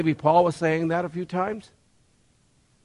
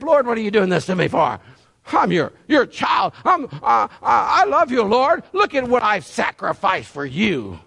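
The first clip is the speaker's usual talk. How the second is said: self-pitying complaint. Retold or imitated. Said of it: "I'm on that pity trip".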